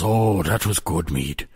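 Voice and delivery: slow, lightly voiced old man relishing the drink; old man savoring. Old stranger thanks the lad for his mead, slow and lightly aged. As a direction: draw it out like an old stranger pleased by a swig.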